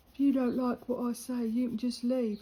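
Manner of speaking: loud, blunt brush-off; firm telling off. Retold or imitated. Brushing off the mouthy lad, loud and firm. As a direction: dismiss him, loud and firm.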